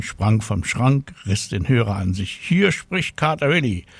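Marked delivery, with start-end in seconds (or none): 2.4-3.9 high, mock announcement voice; cat pretending to be an answering machine, high and formal. A narrator's reading. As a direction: play a prim answering machine.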